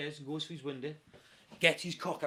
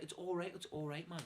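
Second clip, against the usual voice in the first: softer reassurance; retold calming; 2 semitones higher, 7 dB quieter than usual. Narrator calming his worked-up friend, soft reassurance. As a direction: talk him down gently. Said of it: "So I had to calm him down".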